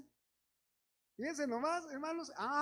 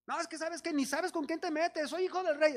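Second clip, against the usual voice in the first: mock arrogant; 5 semitones higher than usual. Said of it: "¿es con orgullo o es con humildad?".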